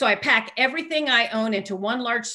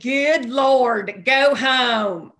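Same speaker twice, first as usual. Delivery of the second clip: loud, raised-pitch mock outburst; exasperated cop; 3 semitones higher, 7 dB louder, much slower than usual. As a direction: belt it out like an appalled cop. Retold cop reacting to mime.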